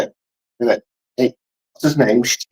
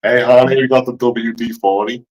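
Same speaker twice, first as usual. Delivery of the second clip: badly faked Texas accent; King of the Hill. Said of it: "sound like a King of the Hill".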